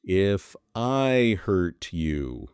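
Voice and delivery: drawn-out, hollow non-apology; very slow, coolly insincere "If I hurt you"; mock fake apology. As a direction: stretch it out like a slippery excuse.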